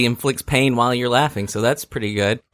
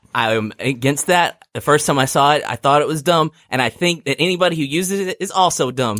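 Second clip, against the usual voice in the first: mock seething hatred. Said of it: "My seething hatred".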